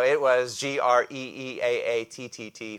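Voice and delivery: exaggerated, elongated great for emphasis; drawn-out great. Shown as a demonstration. Preacher joking about extreme emphasis, drawn-out great. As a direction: stretch "G R E E A A T T T" out long and loud. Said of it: "five exclamation marks".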